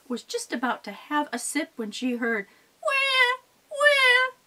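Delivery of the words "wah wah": high mock baby crying wah; baby wail. Bitsy Baby wailing awake.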